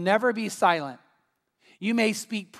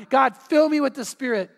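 mildly raised imitation of a churchgoer; retold loud plea; 3 semitones higher, 3 dB louder than usual. Churchgoer praying at the altar for weeks, moderately loud. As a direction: call out to God, half-yelled. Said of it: "man, loudly".

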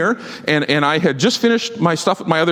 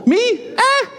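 dismissive shrug. Real, not acted. Self-deprecating joke after praising Trinity.

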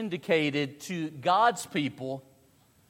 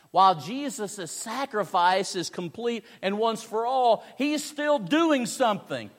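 higher, driving sermon delivery; emphatic preaching; 8 semitones higher, 5 dB louder than usual. Real, not acted. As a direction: preach it with rising conviction.

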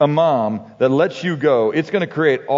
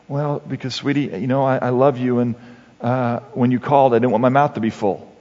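martyr mom; 4 semitones lower than usual. Retold or imitated. Mother's martyr reply to son.

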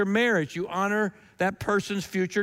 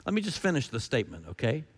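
impatient Paul; 5 semitones lower, 5 dB quieter, faster than usual. Retold or imitated. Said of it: "Paul says".

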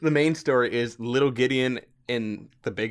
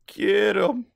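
whispered quote; 10 semitones higher, 4 dB louder than usual. Retold or imitated. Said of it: "we do get a".

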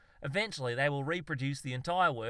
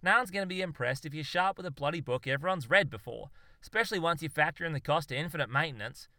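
animated, slightly raised ranting; exasperated explaining; 3 semitones higher than usual. Acted. Zoologist lays out the theory to his mate, exasperated. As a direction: argue it through with growing impatience.

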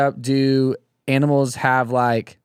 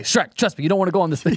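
Shrek's Donkey; 6 semitones higher, faster than usual. Acted. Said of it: "talking like Donkey Kong Shrek".

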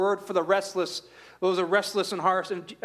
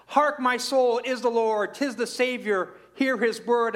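raised, ringing recitation of the hymn line; reading the opening stanza to the congregation, raised and bright; reciting the hymn; 4 semitones higher than usual. Acted. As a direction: lift the voice, proclaim the verse. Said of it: "this first stanza says".

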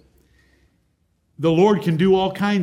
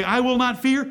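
I will not fear said higher and defiant; bold declaration; 6 semitones higher than usual. Acted. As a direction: declare it like a vow. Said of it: "You say".

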